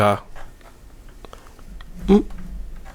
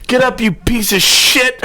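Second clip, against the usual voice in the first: mock angry wake-up call; 7 semitones higher than usual. Retold tow guy waking the house.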